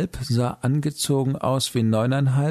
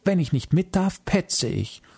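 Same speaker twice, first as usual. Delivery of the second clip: squeaky threatening hiss; 8 semitones higher than usual. A narrator's reading. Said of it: "zischte es piepsig bedrohlich".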